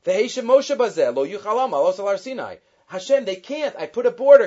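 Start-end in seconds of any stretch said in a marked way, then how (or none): 2.9-4.5 raised-pitch pleading protest; acted objection. Moshe reminds Hashem of the border, acted objection. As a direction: push back, growing louder on the reason.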